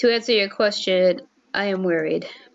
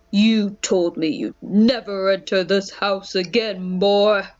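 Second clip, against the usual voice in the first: a lightly voiced bitter old man, slow; a hint of a cold stern father; slower than usual. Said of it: "best way I could try to do a guy voice".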